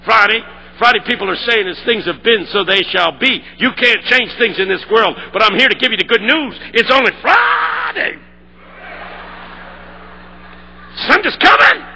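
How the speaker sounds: building to a huge shouted climax; preaching at full force. Retold or imitated. Pastor preaching to the assembly, building to a shout. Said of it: "He took off".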